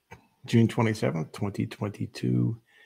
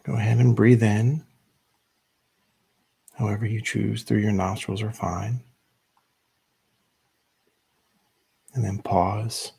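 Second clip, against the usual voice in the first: measured meditation guide with long pauses; unhurried instructions, leaving room to breathe between phrases; guided meditation; 3 dB louder than usual. Real, not acted. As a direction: lead them gently into stillness, phrase by phrase.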